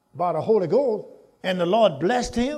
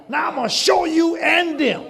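voice of the Lord; 9 semitones higher, 4 dB louder than usual. Acted. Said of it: "The Lord said".

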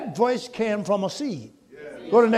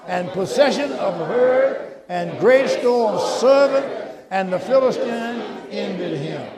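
slow group reading; 3 dB louder, slower than usual. Shown as a demonstration. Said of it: "read it with me".

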